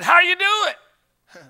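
high, drawn-out caller's hello; mock singsong greeting; imitated phone greeting. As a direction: imitate a chirpy caller, stretching it slowly. Voices the man on the phone.

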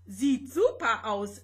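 loud, rasping comment; rasping remark. Acted. Vanya hiding his homesickness from Rosetta, gruff rasp. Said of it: "schnarrte Vanya".

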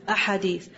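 "a hadith" as one word, ahadith, with an opening "a"; Arabic plural. Shown as a demonstration. Teacher gives students the right plural, "a hadith" run together as ahadith. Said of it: "talking about many hadith, say".

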